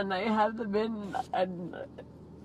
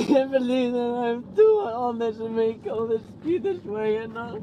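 tearful; 4 dB louder than usual. Real, not acted. Crying while pleading with him.

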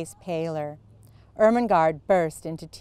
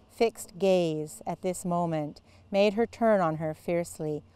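plain reading voice

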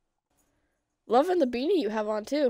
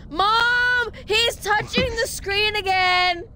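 whiny tattling little sibling; 7 semitones higher, much slower than usual. Pretend. Kid tattling to mom.

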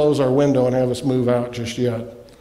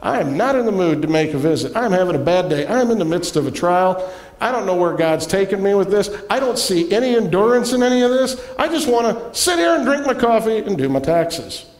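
exasperated inner grumble; 5 semitones higher than usual. Retold or imitated. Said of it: "And I was thinking".

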